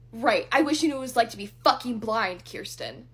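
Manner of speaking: retold anger. Ex snapping at her in argument.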